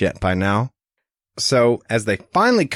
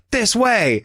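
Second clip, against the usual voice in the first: retold holler; 12 semitones higher than usual. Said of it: "he suddenly hollers out".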